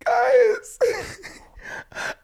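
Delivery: very high, loud squealing shriek; Quinn Blackwell impression. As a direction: shriek it like a teen in a tantrum. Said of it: "Quinn Blackwell".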